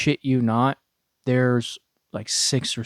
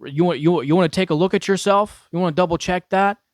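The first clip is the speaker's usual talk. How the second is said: high, louder taunting instructor; drill instructor; 6 semitones higher, 5 dB louder than usual. Retold or imitated.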